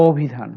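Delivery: "অভিধান" opening with a closed o. Shown as a demonstration. Teacher shows students the vowel shift, "অভিধান" with initial o. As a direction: say "অভিধান" as o-bhi-dhan, rounded first vowel. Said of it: "অ এর উচ্চারণ ও হয়ে গেছে".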